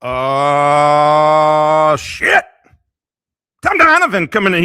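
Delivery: loud excited shout. Real, not acted. Excited arrival of a guest.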